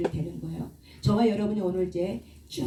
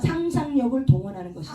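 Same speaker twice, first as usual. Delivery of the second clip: 상상력을 stressed with a falling call to be echoed; leading a repeat-after-me; 3 semitones higher, 3 dB louder than usual. Shown as a demonstration. Pastor leads the congregation in a phrase to repeat, proclaiming. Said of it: "기도 따라서 해보세요".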